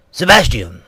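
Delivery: the Queen voiced too deep; plain, low call of the name; deep Queen's voice. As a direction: call the name in your own low register. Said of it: "not in such a deep voice".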